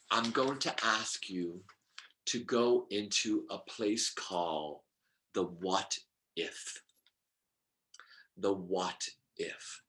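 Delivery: soft, low, with long pauses; hushed guiding. Real, not acted. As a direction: gently usher them in, almost whispering. Guiding listeners into an imagined place.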